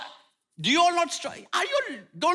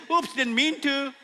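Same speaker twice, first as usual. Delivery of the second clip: mock careless oops; 4 semitones higher than usual. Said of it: "and then you say".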